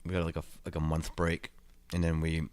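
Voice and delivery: chewing gum while talking; mouth full. Real, not acted. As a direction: talk around a wad of gum. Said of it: "Sorry, I got gum in my mouth".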